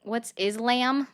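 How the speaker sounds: "Islam" drawn out as the caller says it; mimicked mispronunciation. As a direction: slowly echo "Islam" with a stretched last vowel. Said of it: "making fun of my accent".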